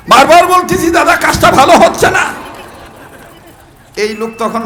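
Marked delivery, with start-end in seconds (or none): 0.1-2.2 higher, louder angry yell; angry shout. Retold or imitated. Fed-up passenger yells at the man beside him, angry. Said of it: "রাগ করি ডাক দিয়ে বলতেছে".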